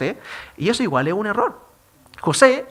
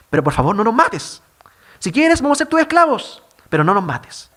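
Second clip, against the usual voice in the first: pleading brothers; 4 dB louder than usual. Retold or imitated. Brothers beg José not to kill.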